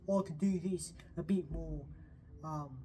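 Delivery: exaggerated, silly British accent; overdone British accent demo; stupid British accent. Shown as a demonstration. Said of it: "stupid sounding British accent".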